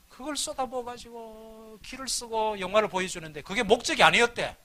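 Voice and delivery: usual speaking voice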